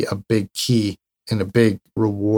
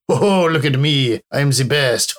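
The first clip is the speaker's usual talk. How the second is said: lightly put-on French accent, a bit higher, puffed up and proud; mock French accent; 3 semitones higher than usual. Mocking the proud person, in a light mock French accent. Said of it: "I did an accent with that".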